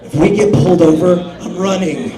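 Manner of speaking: lightly voiced paranoid friend; Steve's warning. Steve in the car, lightly voiced, plotting to run. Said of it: "Steve does this".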